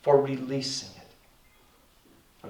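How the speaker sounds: slow, tender praise; gently proud, unhurried; smiling reassurance. Retold or imitated. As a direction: say it slowly with a smile in the voice. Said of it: "I smiled at them and said".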